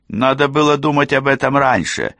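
high-pitched, scornful scolding; haughty reproach. A narrator's reading. Rosalinda rebuffs Cassie's plea, high haughty reproach.

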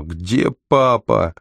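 slow, understated moan; a touch of a groan, words stretched. A narrator's reading. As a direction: drag the question out weakly, as if limp. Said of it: "и застонал".

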